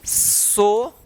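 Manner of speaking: सोशल drawn out in two parts, सो, then शल; syllable by syllable. Shown as a demonstration. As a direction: say सोशल very slowly with a long gap between syllables. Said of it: "क्या पढ़ेंगे".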